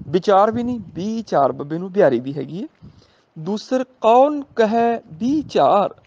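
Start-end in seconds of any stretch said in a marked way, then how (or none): 3.4-5.9 slow, measured scripture recital; gurbani recitation. Shown as a demonstration. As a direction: draw each word out reverently. Recites gurbani line slowly. (ਹੌਲੀ ਪਾਠ ਦੀ ਲੈਅ)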